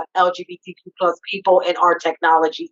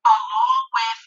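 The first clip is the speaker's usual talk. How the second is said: bad connection, sound muffled as if underwater; words garbled like a call from underwater; muffled underwater audio; 3 semitones higher than usual. Real, not acted. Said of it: "it sounds like you're underwater".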